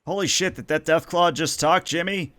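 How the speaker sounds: high, astonished NPC exclaim; amazed. Acted. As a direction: gasp it out in disbelief. NPC amazed at talking Deathclaw.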